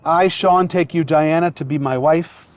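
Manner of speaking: officiant feeding vows phrase by phrase; short phrases with pauses. Shown as a demonstration. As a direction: say each phrase, then pause for the repeat. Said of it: "repeat phrase by phrase after me".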